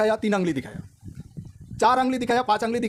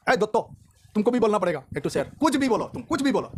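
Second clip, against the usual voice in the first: lightly voiced pushy friend, say something; friend urging; 3 semitones higher than usual. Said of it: "तो मुझे बोला".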